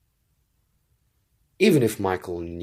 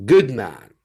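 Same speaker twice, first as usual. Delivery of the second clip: approving; 4 semitones higher, 9 dB louder than usual. A narrator's reading. Zopt approving.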